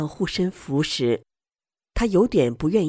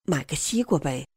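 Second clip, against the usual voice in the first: softly, a touch lower; 2 semitones lower, 5 dB quieter than usual. A narrator's reading. Stallholder offering a watermelon to a passer-by, in a low voice. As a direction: say it quietly, keeping the voice down. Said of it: "声音低低地说道".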